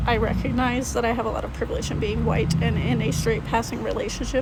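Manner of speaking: shaky, worn-out voice after crying. Real, not acted. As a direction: talk through the tail end of tears. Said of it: "sorry, I've been crying and I'm trying to get my emotions out".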